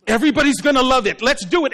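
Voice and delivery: fast mock enthusiasm; gung-ho pitch. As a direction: rush it out as an eager pitch. Acts someone pitching a silly idea.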